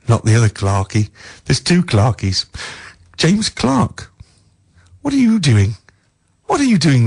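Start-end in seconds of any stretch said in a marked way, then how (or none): 3.2-7.0 calling out a name across the airwaves, up high. Real, not acted. Radio host calling out to a listener, high call. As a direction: hail him like across a room.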